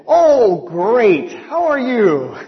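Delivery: loud upbeat greeting; chirpy phone greeting. Retold or imitated. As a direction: beam down the phone at the caller. Cheerful answer on the phone.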